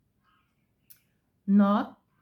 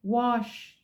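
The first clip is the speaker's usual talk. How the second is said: British English; 3 semitones higher than usual. Shown as a demonstration. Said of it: "in British ways".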